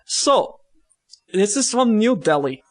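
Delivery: put-on broken-English Russian accent, slipping in and out; loosely held jokey Russian accent; bad Russian accent. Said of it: "So, in Russian voice".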